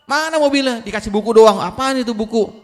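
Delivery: high, loud angry son; angry outburst. Acted. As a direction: snap at the father over the gift. Anak marah soal hadiah buku. (bentakan marah anak)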